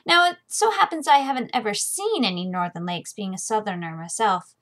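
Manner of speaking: steady first-person fantasy reading; lightly voiced audiobook narration; story narration. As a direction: tell it like a worldly sellsword recalling. Reads the novel's first-person narration.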